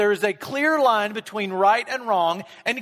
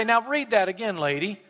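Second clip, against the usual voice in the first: harsh scolding; 2 semitones higher than usual. Retold or imitated. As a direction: bark at her like a scold, lightly. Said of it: "he didn't say it like that".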